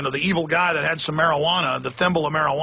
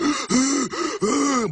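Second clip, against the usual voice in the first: dog gasping; 9 semitones higher than usual. Retold or imitated. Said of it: "And you hear the dog".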